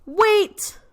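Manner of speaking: high shouted bear cry; loud call. Acted. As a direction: call out to stop the friends. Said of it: "And the bear says".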